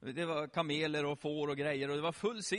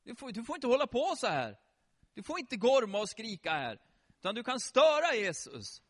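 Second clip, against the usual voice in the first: mildly raised telling-off; scolding disciples; 4 semitones higher than usual. Acted. Disciples scolding the beggar for disturbing Jesus, indignant reproach. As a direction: reprimand a noisy nuisance. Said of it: "sa lärjungarna".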